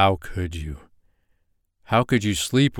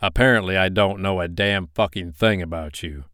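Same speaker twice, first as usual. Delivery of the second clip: growing anger; 4 dB louder than usual. Acted. Betrayed boyfriend confronts her lies, building to angry loud. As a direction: let the rage build word by word. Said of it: "volume of his voice got louder with each word".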